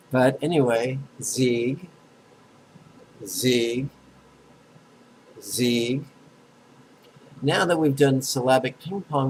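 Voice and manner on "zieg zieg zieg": "Zieg" drawn out, each one rising at the end; pronunciation demo. Shown as a demonstration. Teacher has students echo the last syllable, pronunciation demo. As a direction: sound out "Zieg" singly, with gaps for repeating. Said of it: "Last syllable".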